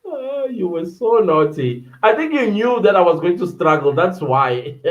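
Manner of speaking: mock scolding; playful teasing. Real, not acted. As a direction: tease them about it. Teasing a viewer who laughed.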